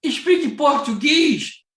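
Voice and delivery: put-on high, slow, hesitant old woman; old lady voice. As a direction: ask it slowly like a lost elderly lady. Velha perdida pede ajuda. (voz alta e lenta de senhora idosa perdida)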